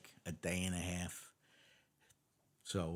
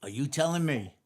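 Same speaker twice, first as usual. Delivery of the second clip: louder, higher, stunned disbelief; incredulous inspector; 7 semitones higher, 7 dB louder than usual. Acted. Inspector questioning cops who outsmarted the chief, incredulous. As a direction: stop everything, loudly astonished, acting out the boss. Inspector reacts to breakfast story.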